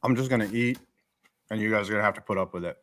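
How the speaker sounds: talking through a mouthful of food; eating while talking. Real, not acted. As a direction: chew and talk at once. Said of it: "We're just gonna A S M R this".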